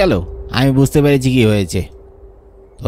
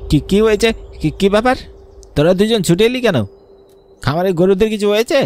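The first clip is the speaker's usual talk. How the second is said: startled questions; 5 semitones higher than usual. Acted. Master startled by servants' rush.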